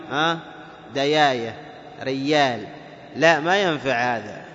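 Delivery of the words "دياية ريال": "دياية" with y sounds for j; jim as ya. Shown as a demonstration. Teacher quotes Hadrami dialect, y in "دياية". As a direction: glide y where j belongs in "دياية" and "ريال". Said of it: "ولا تنطقه ياء".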